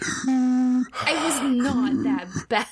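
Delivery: real laughter breaking up the words; laughing protest. Real, not acted. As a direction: protest slowly through helpless laughter. Protesting while laughing at teasing.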